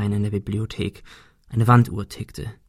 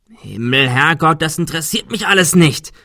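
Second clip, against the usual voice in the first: exasperated shout, louder and higher; 5 semitones higher, 4 dB louder than usual. Acted. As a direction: yell it, fed up and panicking. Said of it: "schrie Adrian".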